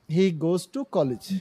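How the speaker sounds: very slow dictation pace; teacher modelling; slow model sentence. Shown as a demonstration. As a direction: say "he goes to college" slowly and deliberately. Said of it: "এই যে to টা দিতে হবে।".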